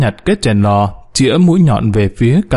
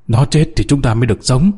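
ordinary delivery

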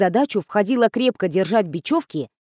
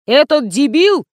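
louder, higher, drawn-out fury; angry yell; 5 semitones higher, 5 dB louder than usual. A narrator's reading. Director Nikolai raging about his adman, loud high angry yell. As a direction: hammer each word in a raised, slow yell. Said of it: "завопил Николай".

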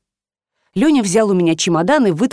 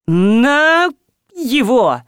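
short raised command; curt order; 4 semitones higher, much slower than usual. A narrator's reading. Master curtly points at his son. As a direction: bark it short.

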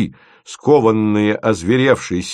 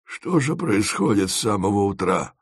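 softer husky smoker's bass; smoky bass voice; 4 dB quieter than usual. Acted. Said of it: "От предосудительных звуков собственного голоса".

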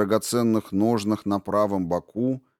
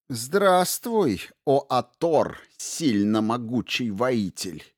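cartoon princess; slower than usual. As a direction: greet him with ringing scorn. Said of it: "звенящий голос принцессы".

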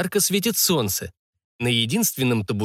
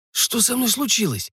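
higher, lightly husky question; 9 semitones higher than usual. A narrator's reading. Patient asking the old man what happened, lightly husky. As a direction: ask it with a touch of hoarseness. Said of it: "спросил я осипшим голосом".

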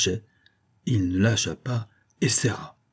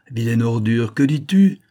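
angry scolding; 5 semitones higher than usual. Acted. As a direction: tear into the beaten peasant. Fox berates trapped peasant.

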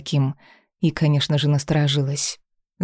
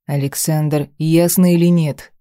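a stern demand, a touch louder; 3 dB louder than usual. Acted. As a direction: press him sternly for an answer. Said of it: "спросил тот строго".

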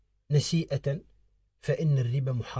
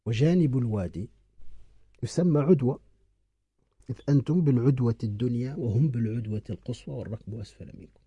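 slow dictation. Shown as a demonstration. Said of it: "اكتب".

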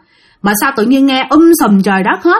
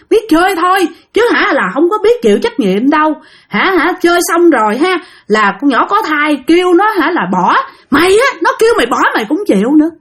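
higher, scornful cursing rant; possessed swearing tirade; 4 semitones higher than usual. Retold or imitated. Possessed man cursing the friends, higher scornful tirade. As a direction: curse them out without pause. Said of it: "Bắt đầu chửi thề quá trời".

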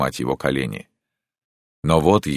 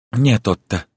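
higher, louder firm refusal; 7 semitones higher, 4 dB louder than usual. Acted. Countess stopping Otto from opening the sack, firm. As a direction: stop him reaching for the sack.

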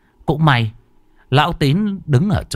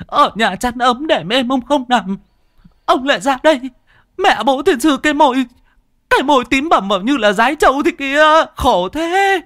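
high crying wail, scolding; wife wailing over her husband; high wailing lament; 12 semitones higher than usual. Acted. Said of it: "mụ vợ rú lên".

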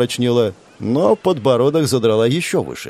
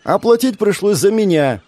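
squeak; 8 semitones higher, 3 dB louder than usual. Acted. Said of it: "пискнул парнишка".

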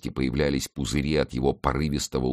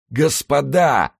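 much higher, loud, very slow wail; drowning man wailing, loud and high; desperate wail; 12 semitones higher, 6 dB louder, much slower than usual. A narrator's reading. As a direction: wail it in despair. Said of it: "в отчаянии возопил".

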